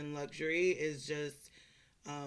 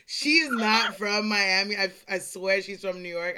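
emphatic insistence; 6 dB louder than usual. Retold or imitated. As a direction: insist it loudly, word by word. Quoting own emphatic inner reaction.

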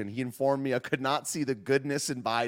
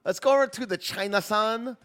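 mock Chinese accent; 6 semitones higher than usual. Streamer doing mock Chinese voice.

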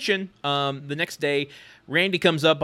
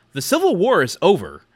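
deadpan; 4 semitones higher, 6 dB louder than usual. Retold or imitated. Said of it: "my favorite Brad delivery".

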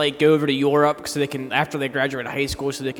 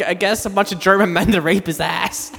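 usual speaking voice

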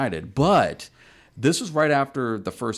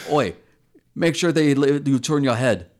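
mock British; 4 semitones higher, 5 dB louder than usual. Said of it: "Bill would say".

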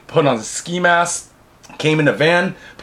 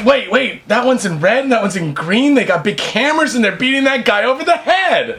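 mock alarm; 6 semitones higher than usual. Imagined clubgoers watching the beating.

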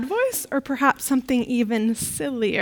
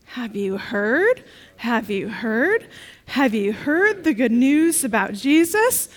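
very confused. Acted. Peter at the empty tomb, confused questions. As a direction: ask it like you don't understand. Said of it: "in a very confused voice".

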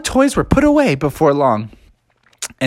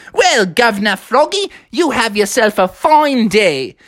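higher, cheery English passerby; lightly hammed English farewell; mock English accent; 5 semitones higher than usual. Passersby answering Governor Froggy, lightly mock English accent.

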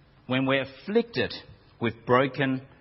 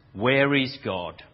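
booming minister voice; 4 dB louder, slower than usual. Retold or imitated. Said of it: "with his deep, booming voice".

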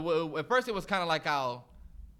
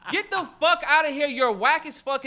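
much higher and louder, laughing through it; outraged laughing shout; 9 semitones higher, 7 dB louder than usual. Real, not acted. Host reacting to the clip, shouting in laughing disbelief. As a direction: blow up in disbelief, cracking up.

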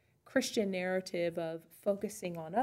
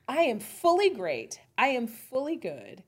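louder, higher proud preschooler proclamation; proud little kid; 4 semitones higher, 9 dB louder than usual. Acted. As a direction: boast like a four-year-old. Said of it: "this is how they talk".

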